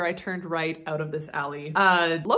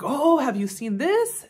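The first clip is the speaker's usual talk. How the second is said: lightly imitated Thai accent, slow; mock Thai accent; 3 semitones higher, slower than usual. Local man recommending sights to a tourist, light mock Thai accent. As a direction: slowly voice a Thai local's question. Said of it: "go into a bit of an accent".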